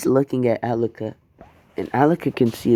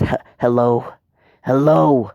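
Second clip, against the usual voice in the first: calling out; 4 dB louder than usual. Acted. Deku calling into the phone.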